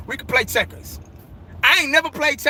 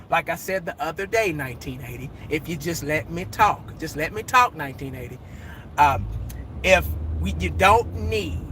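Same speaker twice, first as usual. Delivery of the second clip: Jerry Jones lecturing a reporter; imitating Jerry Jones; 6 semitones lower, 5 dB quieter than usual. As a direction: drag out the owner's excuse. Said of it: "Jerry's talking".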